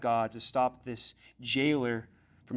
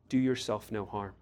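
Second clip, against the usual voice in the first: gentle appeal; 5 semitones lower than usual. Acted. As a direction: speak it personally to the congregation. Applies the verse to listeners.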